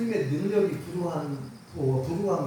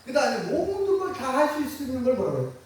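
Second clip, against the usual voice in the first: fervent call; 7 semitones higher than usual. Real, not acted. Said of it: "call and response".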